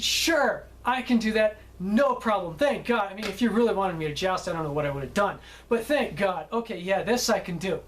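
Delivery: mildly excited, imitating a relieved actor; excited relief. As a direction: play his eager relief, starting brighter and settling down. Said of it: "he was all excited".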